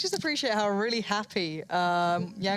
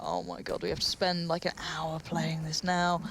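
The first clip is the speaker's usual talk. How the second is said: softer, slow groaning player; weary player; 3 semitones lower, 4 dB quieter than usual. Retold or imitated. Caster voicing a fed-up player, soft slow groan. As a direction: sigh it out like a tired pro.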